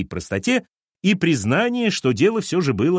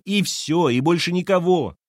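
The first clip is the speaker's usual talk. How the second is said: despairing shout; 7 semitones higher than usual. A narrator's reading. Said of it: "крикнула Лена с отчаянием".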